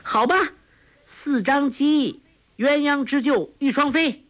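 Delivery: slow, drawn-out, high singsong. Acted. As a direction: stretch each word to needle him. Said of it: "拖长了声音说".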